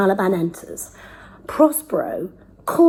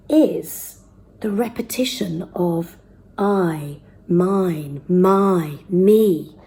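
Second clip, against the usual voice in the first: hushed aside; much slower than usual. Real, not acted. Teacher muses on word repetition.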